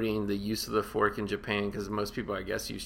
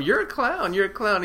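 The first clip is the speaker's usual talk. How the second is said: loud insistent repeat; 11 semitones higher, 5 dB louder than usual. Retold or imitated. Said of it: "Tom keeps telling him".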